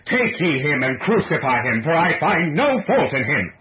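loud, high cry of despair. A narrator's reading. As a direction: cry out in exasperated protest. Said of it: "Pilate cried out despairingly".

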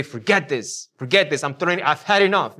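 imitating someone who finally snaps; fed up. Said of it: "almost prompting us to say".

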